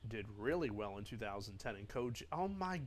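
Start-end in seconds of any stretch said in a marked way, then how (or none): 2.3-2.8 sudden loud, high shout of frustration; frustrated shout. Real, not acted. Gamer yelling at a bad pitch, real frustrated shout. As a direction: blurt it out, fed up with the game.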